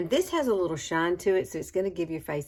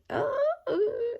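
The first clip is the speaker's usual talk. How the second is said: excited oh. Real, not acted. Excited exclamation, high squeal.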